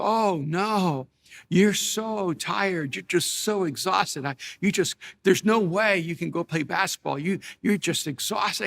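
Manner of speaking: slow, drawn-out mock concern; mock sympathy. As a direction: lay on the pity, stretching the key words. Wife mock-pitying the tired husband.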